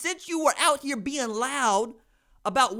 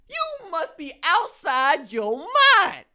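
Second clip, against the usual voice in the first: slow, loud, laughing through the words; laughing disbelief; 5 semitones higher, 5 dB louder, much slower than usual. Real, not acted. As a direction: crack up while saying it. Laughing at Nebraska's expectations.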